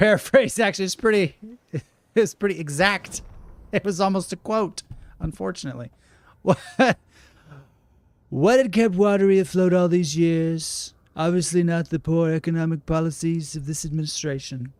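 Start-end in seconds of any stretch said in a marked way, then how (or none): 6.4-14.7 raised, projected reading voice; article read-aloud. Acted. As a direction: read it out like a feature story. Reads an in-game article aloud.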